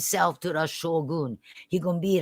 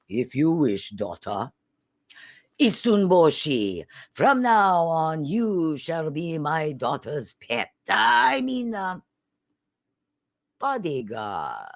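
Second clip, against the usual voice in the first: lordly shogun; 4 dB louder than usual. Acted. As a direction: speak as a ruler granting a favor. Shogun answers his daughter.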